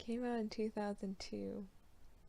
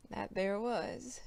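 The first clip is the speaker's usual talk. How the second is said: pirate voice; 3 dB louder, slower than usual. Acted. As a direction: growl it like an old pirate. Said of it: "my best pirate voice".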